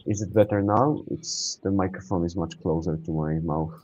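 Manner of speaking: muffled mic sound. Real, not acted. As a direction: voice dulled by a bad clip-on mic. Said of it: "It sounds, like, quite muffled".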